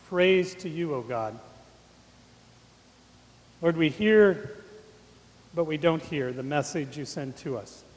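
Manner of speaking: measured, reverent prayer with long pauses; public prayer. Real, not acted. Preacher praying for listeners to hear God's message, reverent prayer. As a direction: pray aloud, low, phrase by phrase.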